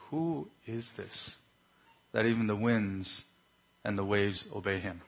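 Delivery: a touch of trembling awe, understated and falling away; hushed fear. Retold or imitated. Disciples after Jesus calmed the seas, understated hushed fear. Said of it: "they feared and trembled".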